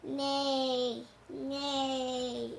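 loud neighing; horse neigh. Shown as a demonstration. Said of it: "Can you make a sound like a horse?".

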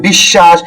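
বিশ্বাস said "bish-shash", sh held double; বিশ্বাস with silent ব-ফলা and a long sh; doubled consonant. Shown as a demonstration. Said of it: "বর্ণের উচ্চারণটা হচ্ছে দ্বিত্ব".

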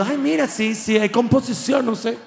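high, a touch sung and amazed; mock impressed listener. A listener mocking reggaeton lyrics, high mock amazement. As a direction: feign being impressed by the lyrics. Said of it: "Tú".

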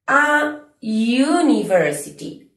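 "A university" despacio, con "university" empezando por sonido ya; pronunciación lenta. Shown as a demonstration. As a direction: alarga "A" y di "university" como "yuniversiti". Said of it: "no empieza con sonido U". (di "A university" muy despacio, con la y inicial marcada)

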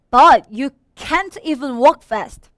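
slow, drawn-out taunt; loud, mocking jibe; teasing. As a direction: rub it in word by word. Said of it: "이러면서 막 놀리는 거예요".

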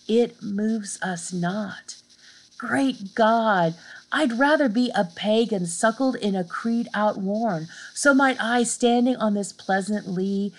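slow, lifted reading of the sestet; teacher reciting the sonnet's answer to the class; poem recitation. Acted. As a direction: recite with rising feeling toward Great God. Reads the sestet aloud.

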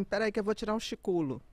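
"chiculo" said with swapped syllables, chi-cu-lo; quick, casual slip "chiculo" for cochilo. Shown as a demonstration. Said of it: "eu falo assim".

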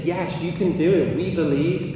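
high, loud imitated crowd reply; acted eager shout; crowd shouting back. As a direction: cheer him on as the whole crowd. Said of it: "they're all shouting".

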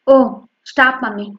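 offhand and dismissive; careless dismissal. Acted. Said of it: "నిర్లక్ష్యంగా అంటూ".

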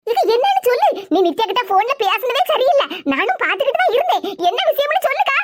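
urgent pleading. Acted. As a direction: insist she spill the news now.

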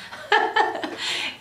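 airy high giggle; high breathy laugh. Real, not acted. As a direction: burst into a light laugh. Laughs after the soft greeting.

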